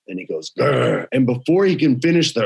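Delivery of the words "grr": a short timid dog growl; half-hearted growl; mock growl. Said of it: "my man growled".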